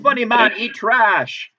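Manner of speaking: put-on joking Russian accent. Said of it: "that's my Russian accent".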